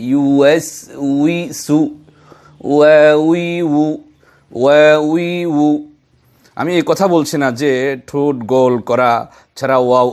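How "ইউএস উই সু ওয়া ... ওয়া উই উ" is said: ওয়া উই উ slow, lips rounded, louder; rounded waw drill. Shown as a demonstration. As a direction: hit each ওয়া slowly and firmly. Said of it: "ঠোঁটকে গোল করেই উচ্চারণ করতে হবে". (গোল ঠোঁটে ধীরে জোরে ওয়া উই উ)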